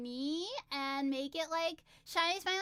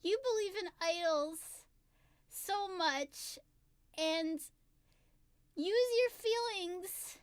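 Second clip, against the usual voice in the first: slow, tender words of encouragement; lightly acted kindly inner voice; Chika's gentle wisdom; 2 semitones higher, slower than usual. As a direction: reassure gently, with pauses between phrases. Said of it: "she holds my hands gently, and she says".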